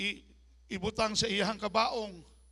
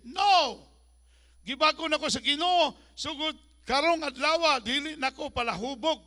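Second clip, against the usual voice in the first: defiant believer; 5 semitones higher, 6 dB louder than usual. Acted. Voicing a believer rejecting drunkenness.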